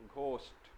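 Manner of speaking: घोष्ट spoken crisp with a clear gh; घोष्ट with a clear aspirated gh. Shown as a demonstration. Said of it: "तो इसको घ बोलते हैं".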